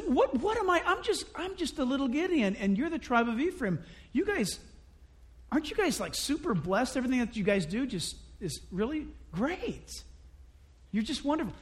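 butter them up gently, a touch humble; soft flattering answer. Retold or imitated. Gideon soothing the angry tribe of Ephraim, soft flattery. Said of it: "Gideon used a soft answer".

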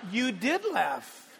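slow, drawn-out "did" in a teasing tone; stress on did. Retold or imitated. God calling out Sarah, slow stress on did. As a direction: press on "did", calling her out. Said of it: "God calling you out?".

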